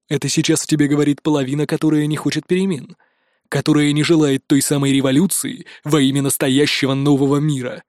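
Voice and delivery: calm, even, controlled reasoning; extremely calm. Acted. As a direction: explain it evenly, keeping all heat out. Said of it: "стал максимально спокойным". (предельно спокойно и ровно)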